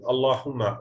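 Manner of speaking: Allahumma said as one joined word, no break; unbroken word. Shown as a demonstration. Teacher showing students Allahumma said as one unbroken word. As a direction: run Allahumma together in one flow. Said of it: "we never break the word Allahumma".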